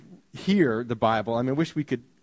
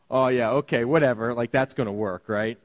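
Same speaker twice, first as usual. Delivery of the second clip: sarcastic; 5 semitones lower than usual. Retold or imitated. Disciples scoffing at Jesus.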